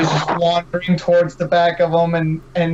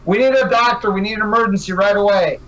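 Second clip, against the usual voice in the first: raised, urgent call for a doctor; yelling for a doctor; 4 semitones higher than usual. Acted. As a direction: shout it across the waiting room. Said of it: "he's gonna yell".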